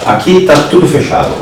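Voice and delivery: loud, echoing in a closed room. Real, not acted. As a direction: let the walls throw it back. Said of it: "Olha o eco".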